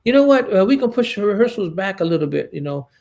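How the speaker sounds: mimicking an evasive crew member; nervous stammering. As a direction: hem and haw like someone hiding bad news. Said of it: "uh, stuttering around".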